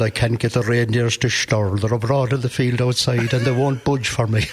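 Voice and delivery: light imitation of a broad Mayo accent; a hint of a country Mayo Santa. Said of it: "Santi had the broadest Mayo accent".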